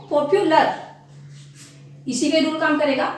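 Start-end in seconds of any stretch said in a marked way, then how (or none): 0.1-0.7 पॉपुलर split with a short gap before "lar"; syllable break. Shown as a demonstration. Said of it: "इसमें भी देखो".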